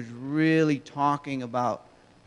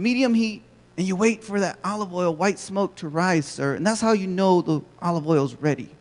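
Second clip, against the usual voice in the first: cheery cashier voice; 2 semitones higher, 4 dB louder than usual. Retold or imitated. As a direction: chirp it like an overeager cashier. Cashier explains recipe.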